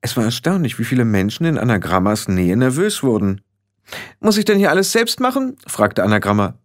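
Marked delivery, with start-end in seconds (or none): 4.2-5.6 high-pitched imperious complaint; bossy young witch losing patience; exasperated. Acted. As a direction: scold them as hopeless helpers. Leader scolds her fumbling follower.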